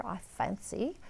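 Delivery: a hint of British on I fancy; faint attempt at a British accent; light British accent. Shown as a demonstration. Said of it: "A little bit British here".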